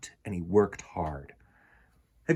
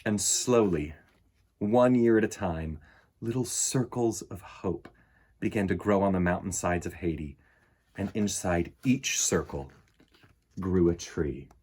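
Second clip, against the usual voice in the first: put-on gentle read-aloud for children; storybook reading. A narrator's reading. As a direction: read it like bedtime story time. Reads picture book aloud.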